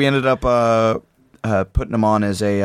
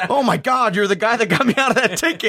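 imitated excitement; 12 semitones higher than usual. Recognizing the cop in story.

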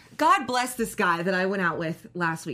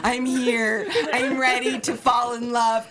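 mock Bachelor entrance; 3 semitones higher, 5 dB louder, slower than usual. Bachelor-style grand entrance.

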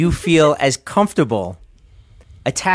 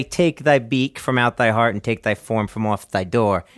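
poem recital; 6 semitones lower, 4 dB quieter than usual. Acted. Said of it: "This is my Raven".

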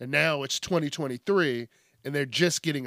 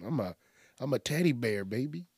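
smooth and sexy; 5 dB quieter than usual. Pretend. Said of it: "smooth and sexy".

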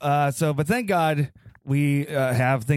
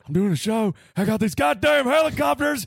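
Stone Cold; 8 semitones higher than usual. Retold or imitated. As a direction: gripe like a cranky Texan on his porch. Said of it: "He'll be like".

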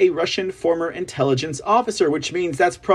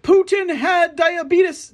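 high, slow, mocking announcer voice; drawn-out mock headline, pitched up; mock news anchor; 11 semitones higher, slower than usual. Mocking the media's headlines in a high, slow mock announcer voice. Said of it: "They're gonna be like".

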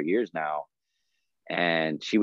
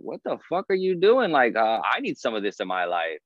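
amazed friends; 5 semitones higher than usual. Retold or imitated. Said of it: "They're like".

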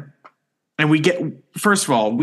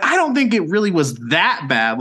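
mildly defensive protest, pitched up; retold defensiveness; 5 semitones higher than usual. Speaker defends themself to scolding friends, mildly defensive. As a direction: push back a little, voice lifting in self-defence. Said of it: "I got defensive".

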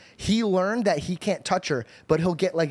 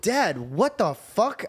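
slow, higher-pitched mock shock; retold disbelief; 4 semitones higher, much slower than usual. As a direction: draw out each word, appalled at dad. Retells shocked reply to dad.

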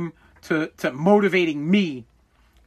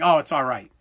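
unimpressed dad; 5 semitones lower than usual. Retold or imitated. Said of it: "My father would say something like".

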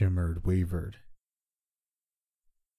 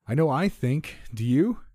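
high, raised shout with a pressing question; 7 semitones higher, 4 dB louder than usual. A narrator's reading. Narrator pressing his friend in the storm, shouting. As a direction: shout across the gale, demanding an answer. Shouted exchange over loud winds.

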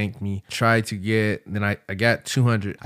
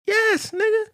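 high shouted yes; eager shout. Retold or imitated. Shouting yes to the line-jumping offer. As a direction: yell it out, dying to skip the line.

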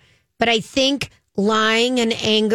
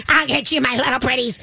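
Wicked Witch of the West. Retold or imitated. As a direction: play the witch, menacing and gleeful. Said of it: "sounded like the Wicked Witch of the West".

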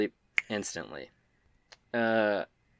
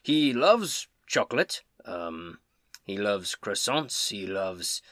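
Tybor; 3 dB louder, slower than usual. Acted. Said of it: "Tybor says".

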